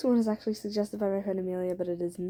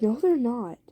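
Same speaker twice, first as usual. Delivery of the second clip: slightly raised, insistent retort; 3 semitones higher, 3 dB louder than usual. Acted. Listener argues back at Jason, voice starting to rise. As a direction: raise your voice a little in mock argument. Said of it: "you start to raise your voice".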